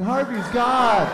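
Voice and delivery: high, very slow frightened hen; cowed chicken. Retold or imitated. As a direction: draw out "Harvey's God" in a high hen voice. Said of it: "Meryl Streep chicken's in the corner like".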